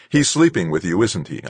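demanding. Acted. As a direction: demand an answer. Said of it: "I demanded".

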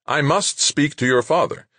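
insistent, high-pitched demand. A narrator's reading. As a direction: press hard for the father. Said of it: "Rashid demanded".

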